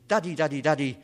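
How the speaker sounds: loud, insistent calling for daddy; young polar bear. Acted. Polar bear cub running over to ask his daddy, insistent calling. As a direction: play a little bear pestering its parent. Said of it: "he runs over to his daddy and he says".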